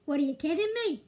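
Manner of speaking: a hint of a New Yorker saying "What are you kidding me?"; understated New York accent impression; light New York accent. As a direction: toss off the line in a mild New York accent, falling on "kidding". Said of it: "As the New Yorkers say here".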